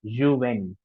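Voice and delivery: Juvénile with é as AY; French pronunciation. Shown as a demonstration. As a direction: say Juvénile as zhoo-vay-NEEL. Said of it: "That's how the pronunciation is".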